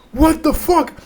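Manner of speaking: very high mock astonishment; retold disbelief. Reacting to a claimed miracle healing, high incredulous voice. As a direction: squeak up in acted-out amazement.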